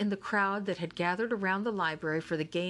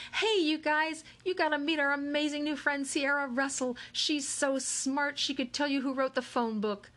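perky cheerleader shout; 9 semitones higher than usual. Acted. Haley introducing Sierra to the crowd, peppy high shout. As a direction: hype up the crowd, bubbly. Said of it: "heard Haley shout".

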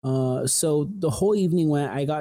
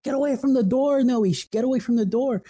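frantic panicked yell; 9 semitones higher than usual. Retold or imitated. Supervisor panicking at him to leave the door, frantic high yell. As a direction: shout him back from the door in terror. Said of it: "is yelling at me sh-, in frantic panic".

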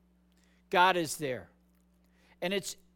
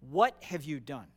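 lower, firm accusing question; demonstrative confrontation; 4 semitones lower, 4 dB louder than usual. Acted. God to Cain after he kills his brother, confronting. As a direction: confront them with what they did. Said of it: "It's a whole different tone".

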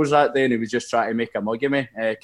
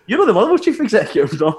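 much higher, laughing at the end; laughing disbelief; 9 semitones higher, 4 dB louder than usual. Retold or imitated. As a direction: ask it while cracking up. Retelling his embarrassed question to a stranger.

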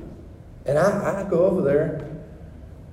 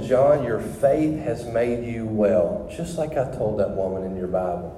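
the Lord speaking; 5 semitones lower, 4 dB quieter than usual. Retold or imitated. The Lord to John driving down the road, calm and low. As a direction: speak as God, low and unhurried. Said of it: "and the Lord said".

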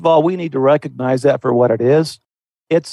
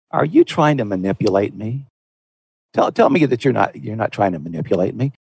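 nice, gentle asking; 5 semitones lower than usual. Shown as a demonstration. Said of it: "but do it nicely".

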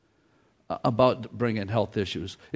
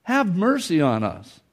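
raised plea; 5 semitones higher than usual. Retold or imitated. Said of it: "called out to Jesus in a loud voice".

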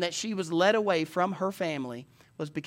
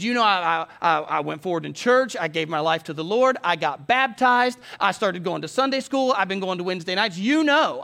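louder, insistent retelling of a plea; caller's agitated plea; 2 semitones higher, 6 dB louder than usual. Retold or imitated. Young man pleading with his pastor by phone, agitated.

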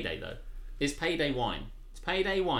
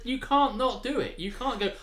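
ordinary talk, nothing marked

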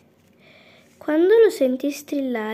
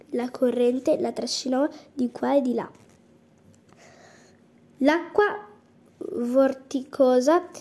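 usual speaking voice

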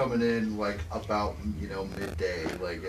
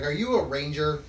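put-on little girl voice; 4 semitones higher, 5 dB louder than usual.

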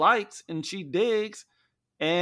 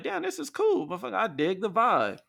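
mock impressed guest; 4 semitones higher, 5 dB quieter than usual. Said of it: "People just gonna be like".

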